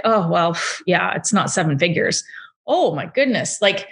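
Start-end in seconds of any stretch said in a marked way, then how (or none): 0.0-2.2 dismissive. Retold or imitated. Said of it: "toss them aside like".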